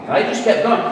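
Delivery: ordinary delivery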